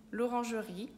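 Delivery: "L'Orangerie" in careful French; French pronunciation. Shown as a demonstration. Teacher repeats French museum name. ("L'Orangerie" pronunciado em francês)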